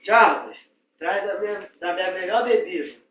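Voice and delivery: loud commanding call; bossy shout. Acted. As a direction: demand the best drink loudly. Boss shouting for his drink.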